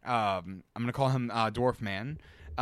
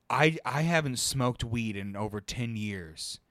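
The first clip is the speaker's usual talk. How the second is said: dead serious; 2 semitones lower than usual. Retold or imitated. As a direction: imitate someone confessing with total gravity. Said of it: "the most serious fucking tone".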